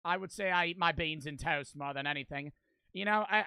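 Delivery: hammed-up mock British accent; bad British accent. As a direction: put on a haughty, unconvincing British voice. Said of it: "prepare my British accent".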